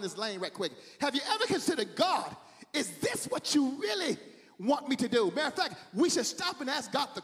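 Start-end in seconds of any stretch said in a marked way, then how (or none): 1.9-5.3 cried-out question to God; impassioned preacher questioning God; urgent preached plea. Acted. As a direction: call it out to God, stretching the phrase.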